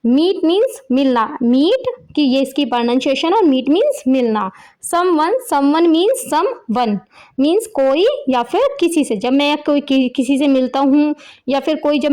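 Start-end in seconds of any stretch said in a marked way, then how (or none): 4.9-6.9 slow pronunciation. Shown as a demonstration. Teacher pronounces a vocabulary word.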